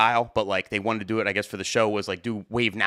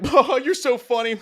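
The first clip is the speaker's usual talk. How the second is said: fake flatterer; 13 semitones higher, 3 dB louder than usual. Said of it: "and they're like".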